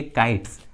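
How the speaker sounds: "काइट्स" ending in a crisp s, not z; s sound ending. Shown as a demonstration. Teacher showing how final S sounds, "काइट्स" ending in s. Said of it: "एस का उच्चारण स हो रहा है".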